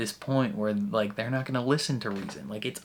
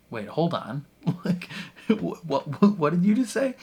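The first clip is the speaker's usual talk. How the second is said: rising, louder, stunned disbelief; sudden shock; 7 semitones higher, 4 dB louder than usual. Retold or imitated. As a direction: stop dead, catch what she just said. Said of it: "and she's like".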